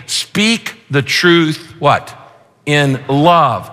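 slow build, pause for answer; call and response. Shown as a demonstration. Preacher prompting his congregation to finish the verse, slow. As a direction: draw out the line, let them fill in. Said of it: "prompting congregation to complete".

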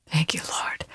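breathed thank-you; hushed whispered thanks; whispered prayer. Real, not acted. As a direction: whisper it reverently. Host responds to testimony.

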